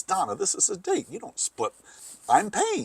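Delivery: lightly voiced man; man's voice. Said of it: "he goes".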